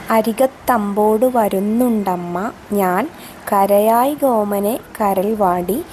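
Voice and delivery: slow, measured verse reading with drawn-out vowels; poem recitation. Acted. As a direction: recite the verse slowly, lingering on phrase ends.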